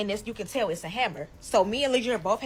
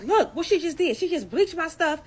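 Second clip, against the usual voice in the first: higher, laughing, worked-up retelling; laughing outrage; 6 semitones higher, 4 dB louder than usual. Retold or imitated. Calling everybody about the bleach, laughing outrage, higher. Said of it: "I'm like".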